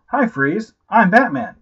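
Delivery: light imitation of a cocky Batman; a hint of a smug movie star announcing himself; lightly voiced self-satisfied hero; George Clooney voice. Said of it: "in his George Clooney voice".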